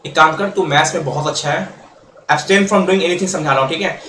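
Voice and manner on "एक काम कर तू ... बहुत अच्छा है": a gently coaxing, friendly offer; said lovingly. Retold or imitated. Teacher voicing A sweet-talking B into joining, lightly persuasive. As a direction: coax him kindly, like a friend. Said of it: "मैंने बोला B को प्यार से".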